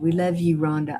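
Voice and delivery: ordinary talk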